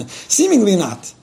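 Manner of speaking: slow, laughing repeat; amused. Real, not acted. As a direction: chuckle through it.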